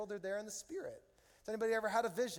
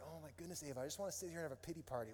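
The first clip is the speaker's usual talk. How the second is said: annoyed dad; 2 semitones lower, 7 dB quieter, much faster than usual. Retold or imitated. Annoyed dad wanting to be left alone, quiet grumble. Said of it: "I was just annoyed".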